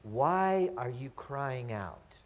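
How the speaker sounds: "Why" stretched out, the whole question slow and deliberate; slow, weighty question with stress on "Why"; emphasized question. Shown as a demonstration. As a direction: lean on "Why" and draw the question out. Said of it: "I want us to emphasize this for just a second".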